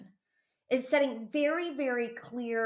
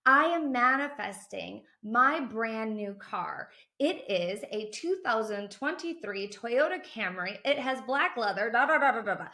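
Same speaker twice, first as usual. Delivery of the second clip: proud and confident; 3 dB louder than usual. Shown as a demonstration. Coach showing viewers how to affirm their car proudly, confident declaration. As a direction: declare it like it already belongs to you. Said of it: "Say it proudly".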